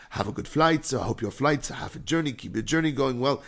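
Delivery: lightly imitated Caribbean accent, positive patter; imitated Caribbean-sounding accent. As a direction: reel off good wishes with a mimicked Caribbean lilt. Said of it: "It was just one positive".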